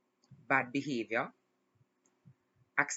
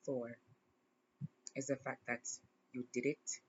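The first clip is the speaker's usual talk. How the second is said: gentle tender advice; 4 dB quieter than usual. Real, not acted. Emotional advice to younger self.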